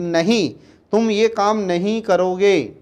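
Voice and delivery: slow, firm no with weight on नहीं; teacher demonstrating a strict prohibition; strict refusal. Shown as a demonstration. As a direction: forbid it firmly, word by word. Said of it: "strictly मना करते हैं".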